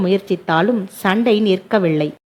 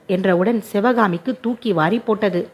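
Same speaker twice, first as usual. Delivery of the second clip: plain reading voice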